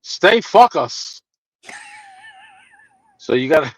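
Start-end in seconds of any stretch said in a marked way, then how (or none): 0.0-1.2 put-on Greek accent. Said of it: "in his heavy accent".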